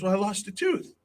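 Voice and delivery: put-on little boy. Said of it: "he's very little".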